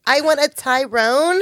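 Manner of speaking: put-on light, slow white girl voice. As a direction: play it as a clueless white girl ordering. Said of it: "I have to do my white girl voice".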